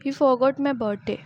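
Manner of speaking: forgot said slowly and clearly, falling at the end; slow model sentence with forgot stressed. Shown as a demonstration. Teacher modelling the past tense, slow and clear. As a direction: drill it slowly with weight on forgot. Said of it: "Forgot बोलेंगे".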